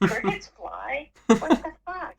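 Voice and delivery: shocked, rising to a loud high burst; retold startled outburst. Retelling the cricket scare to a friend, startled outburst. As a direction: blurt it out, freaked by the bug.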